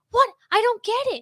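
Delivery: high-pitched mock confusion; put-on puzzled teenager; imitated clueless teens. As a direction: mimic baffled kids in a high voice. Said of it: "everyone else is like".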